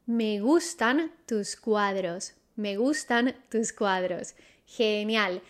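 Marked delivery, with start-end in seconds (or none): 0.1-2.3 slowed down for the learner, each word laid out; slow model phrase. Shown as a demonstration. Teacher models the sentence slowly for students. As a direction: say it slowly so students can copy. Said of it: "How do you say that?".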